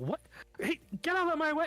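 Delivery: put-on character voice, yelling. Voicing a character who bursts out of her office: Alessandra yelling.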